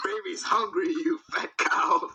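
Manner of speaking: mock demon demanding food, slowing at the end; hammed-up possessed-kid growl, drawn out; demonic voice. Possessed little boy demanding milk from mama, mock demonic. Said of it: "he just goes in a demonic voice".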